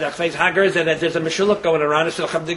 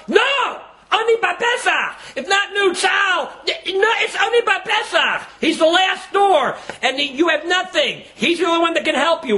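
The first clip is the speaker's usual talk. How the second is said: impassioned insistence; 10 semitones higher than usual. Real, not acted. Preacher urging listeners to pray at the last door, crying out. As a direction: drive each phrase home at high pitch.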